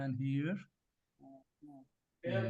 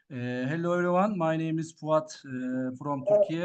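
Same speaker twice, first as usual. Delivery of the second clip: louder restart of the introduction; speaking up; 5 dB louder than usual. Real, not acted. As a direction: project clearly into the mic. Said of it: "now much better".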